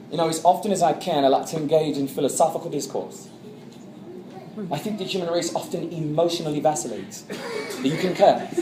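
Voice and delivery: scholarly put-on English accent; pompous British philosopher's diction. Liverpool persona airs his philosophical habits, British accent. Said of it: "I talked like this".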